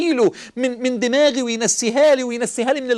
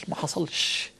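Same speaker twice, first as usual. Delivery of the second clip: whisper; 6 semitones lower, 8 dB quieter, slower than usual. Real, not acted. Whispered aside in sermon.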